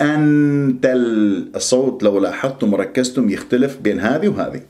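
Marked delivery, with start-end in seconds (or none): 0.0-1.5 slow "أنت ال" with a plainly articulated n; tongue firmly on n in "أنت", not hidden; wrong clear noon. Shown as a demonstration. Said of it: "مش".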